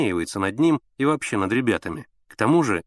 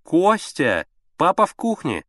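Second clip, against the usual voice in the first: higher, louder reply across the flat; loud answer; 8 semitones higher, 4 dB louder, slower than usual. A narrator's reading. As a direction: shout it back to the bedroom. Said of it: "громко ответил Слава". (громко, на всю квартиру)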